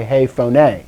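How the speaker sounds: phone said "pho-NAY", stress on the end; teacher's measured "hey pho-NAY" for phone; accented last syllable. Shown as a demonstration. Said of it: "notice it has the accent".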